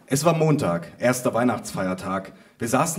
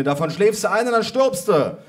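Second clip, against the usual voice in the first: high, loud warning call; cousin calling out; 9 semitones higher, 4 dB louder than usual. A narrator's reading. Cousin warns grandma about the smoke, high calling. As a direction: raise the voice to warn grandma. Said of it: "rief meine Cousine".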